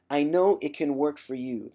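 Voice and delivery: lightly voiced confident Nicole; a hint of Nicole's calm assurance; Nicole impersonation. Quoting forum host Nicole, a barely changed confident voice. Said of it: "That's my Nicole impersonation".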